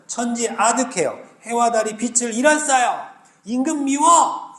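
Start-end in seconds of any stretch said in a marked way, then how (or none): 3.4-4.5 put-on high, slow childish pout; childish whine. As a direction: whine it like a sulking kid. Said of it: "이렇게 얘기하는 거예요". (토라진 아이처럼 징징대며)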